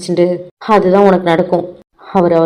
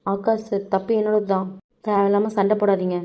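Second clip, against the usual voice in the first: much softer, meek plea to stop the fight; soft pleading; 6 dB quieter than usual. Acted. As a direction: take the blame in a hushed, humble voice. Girl takes blame, pleads softly. (சண்டை வேண்டாம் என்று மெல்லிய குரலில் கெஞ்சல்)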